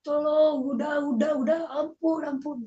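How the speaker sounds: high, pleading cry, fading at the end; re-enacted cry for help. Beaten son crying for help, high re-enacted pleading. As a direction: act out begging for it to stop. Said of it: "saya teriak-teriak seperti itu".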